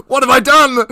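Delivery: high, loud cry through laughter; laughing dismay. Real, not acted. Host regretting his friend's growing head, laughing mock dismay. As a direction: wail it out while cracking up.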